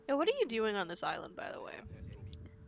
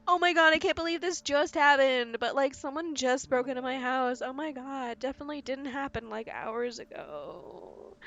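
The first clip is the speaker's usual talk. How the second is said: fake-shocked burglary victim, louder and higher; mock panic; 4 semitones higher, 3 dB louder than usual. Player pitching an insurance scam, mock panic. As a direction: ham up a fake report of a break-in. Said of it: "tell you, like".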